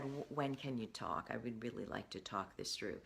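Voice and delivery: soft, calm ask to talk things through; calm request. Retold or imitated. To a partner after a tense email, calm and soft. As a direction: keep it gentle and unhurried, no blame. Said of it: "I sent a long email that was very calm".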